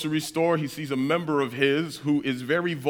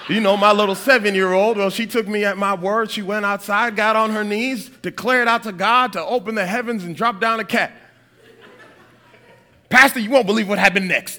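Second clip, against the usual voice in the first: excited storytelling sister; 4 semitones higher, 4 dB louder than usual. Retold or imitated. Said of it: "Pastor says".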